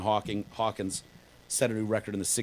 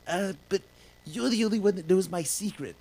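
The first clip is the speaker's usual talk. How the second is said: Stewie voice; 9 semitones higher than usual. Retold or imitated. Voicing Stewie in a retold scene.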